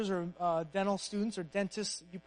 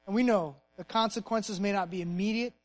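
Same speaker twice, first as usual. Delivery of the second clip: earnest prayer. Real, not acted. Pastor closing the sermon by praying to God, earnest prayer. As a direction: lead the room in prayer, pausing between phrases.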